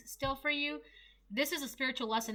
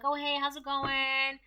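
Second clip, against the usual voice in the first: fake friendly greeting; 3 semitones higher, slower than usual. Imitating the woman greeting exes.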